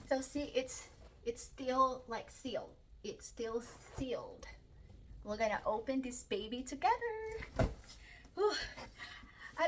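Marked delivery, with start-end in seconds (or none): 2.1-4.5 hushed whisper over the sealed book. Real, not acted. Vlogger whispering to viewers that the book is still sealed. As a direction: whisper it like a secret.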